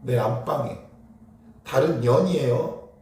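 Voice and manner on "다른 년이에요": slow, weighted 다른 년이에요; slow, pointed crude phrasing; deliberately crude emphasis. Shown as a demonstration. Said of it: "제가 일부러 그런 표현을 한 거예요". (일부러 천천히 강조하는 말투)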